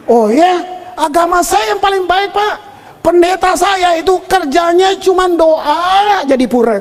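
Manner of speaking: proudly insist, imitating the driver; retold boasting. Taxi driver boasts about his religion.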